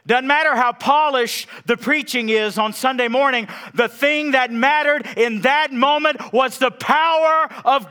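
loud, high, impassioned preaching to the congregation; preaching at full force. Acted. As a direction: thunder it from the pulpit, building the fire.

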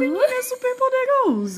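villain impression. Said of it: "Ele fala assim".

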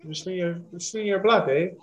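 lightly put-on Minnesotan; mock Minnesota accent. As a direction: play the Minnesota gangster as a joke. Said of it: "I don't even got a Maine accent to give you".

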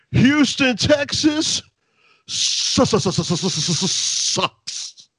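high mock wrestling promo yell; Bubba's yell. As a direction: stutter out sucks like a heel promo. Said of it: "he just goes".

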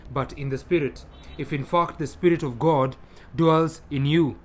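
measured, formal Bible reading with emphatic swells; scripture reading. Acted. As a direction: read scripture to the congregation, phrase by phrase. Reads Scripture aloud to congregation.

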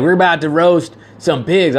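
lightly put-on country twang; country accent. Imitating a rapper at his flamethrower, light country accent. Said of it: "he had a country accent".

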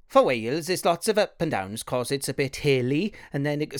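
Welsh lilt. Shown as a demonstration. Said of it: "rise and fall of whatever accent".

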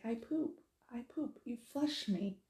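a hint of an upset toddler; imitated upset toddler. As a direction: lightly mimic a frustrated little boy. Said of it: "he got really upset".

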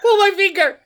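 high, loud goofy dad-joke call; booming tipsy uncle. Acted. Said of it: "I got fart jokes and dad jokes to do".

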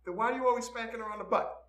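put-on high child voice breaking into laughter; little kid. Kid questions stepdad about Mom, high puzzled child voice.

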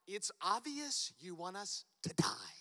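slow, hushed mock-dramatic whisper. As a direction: whisper it like a sulking accusation. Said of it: "they're like".

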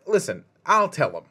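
sighing then half-laughing mock shout; impersonating Hendrickson brushing off the warning; mock defiant snap.

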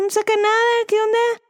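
high-pitched incredulous whine. Pretend. Complaining about band's silence.

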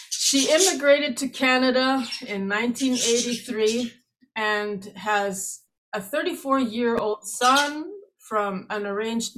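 talking around candies in mouth; mouth full. Real, not acted. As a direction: marbles in mouth. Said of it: "I have a couple of candies in my mouth".

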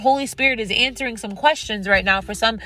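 thankful prayer, steady and devout; spoken prayer. Acted. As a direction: pray aloud over the listeners. Leads a prayer.

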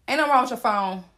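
mock dramatic pause before the line. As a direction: let a long dramatic pause hang before it. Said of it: "That was a dramatic pause".

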